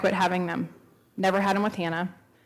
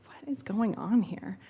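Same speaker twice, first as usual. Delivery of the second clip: slow, whispered bewilderment; slow hushed confusion; puzzled whisper; 2 semitones higher, 6 dB quieter, slower than usual. Retold or imitated. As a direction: breathe the question to yourself. Confused inner thought, retold.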